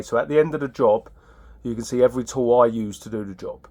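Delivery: usual speaking voice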